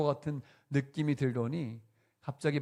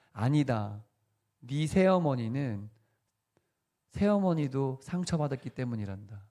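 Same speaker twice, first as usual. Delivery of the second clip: gentle answer. Retold or imitated. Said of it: "주님이 이렇게 말씀하셨대요".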